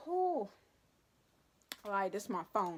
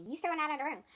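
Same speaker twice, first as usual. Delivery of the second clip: mock teacher; 7 semitones higher, 3 dB louder, much faster than usual. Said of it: "This is Barbie".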